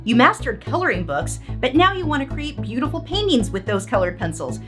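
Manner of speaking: over-the-top TV ad pitch; infomercial. Acted. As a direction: sell it like a late-night infomercial. Parody infomercial read by S0.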